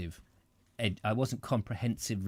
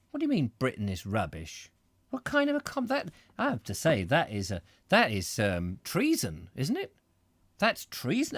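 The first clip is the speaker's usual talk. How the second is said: mock outrage. Mock outrage at viewer comment.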